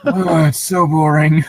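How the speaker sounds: laughing. Real, not acted. Laughing at bad movie plot.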